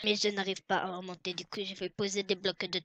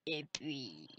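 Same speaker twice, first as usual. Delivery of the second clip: whisper; 7 semitones lower, 14 dB quieter than usual. Acted. Trailing whisper.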